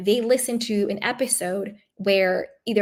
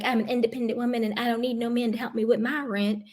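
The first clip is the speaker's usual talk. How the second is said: mocking imitation; 4 dB quieter, faster than usual. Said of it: "she wants to be like".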